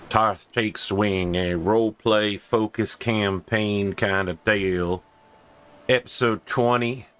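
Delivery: a hint of a Western cowboy accent. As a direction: play a folksy cowboy accent host. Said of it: "the stress in the accent came from".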